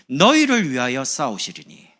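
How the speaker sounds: 성경 말씀을 선포하듯 천천히; scripture proclaimed. Acted. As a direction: declare the verse over the church. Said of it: "어떻게 된다고요".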